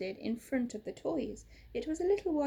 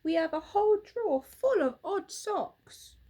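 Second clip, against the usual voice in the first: laughing; 8 semitones higher, 7 dB louder than usual. Acted. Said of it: "laughed Bramwell".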